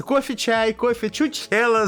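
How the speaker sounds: high, sing-song stewardess offer; chirpy cabin-crew trolley call; flight attendant voice. Retold or imitated. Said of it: "ходят вот это вот стюардессы".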